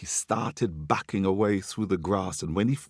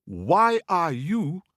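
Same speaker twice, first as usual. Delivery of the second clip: mocking monkey voice; 6 semitones higher than usual. Monkey lecturing Lion mockingly.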